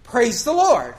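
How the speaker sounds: praising aloud to the fishermen. Shown as a demonstration. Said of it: "you go".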